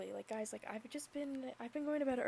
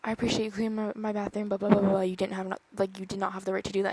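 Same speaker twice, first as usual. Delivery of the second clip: angry rant; 6 dB louder, faster than usual. Retold or imitated. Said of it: "because I was just so mad".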